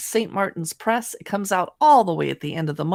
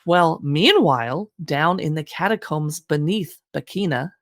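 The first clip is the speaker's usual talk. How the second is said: spooky narration; 3 semitones lower than usual. Acted. Dramatic horror blurb ending.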